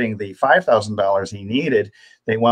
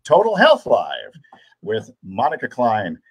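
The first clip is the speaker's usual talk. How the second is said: narration voice; 2 semitones higher than usual. Shown as a demonstration. Host opening the Total Health Live broadcast, in a narration voice. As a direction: announce the show like a voiceover artist. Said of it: "That's my narration voice".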